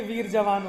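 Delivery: "वीर जवान" as two words, वीर and जवान; split as vir javan. Shown as a demonstration. Teacher contrasting meanings, "वीर जवान" split after वीर. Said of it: "ये होते हैं syllable".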